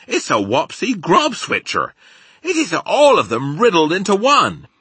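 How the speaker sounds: rustic giant building to high, loud climax; friendly giant, worked up. A narrator's reading. Giant describes the worst dream, building rustic excitement.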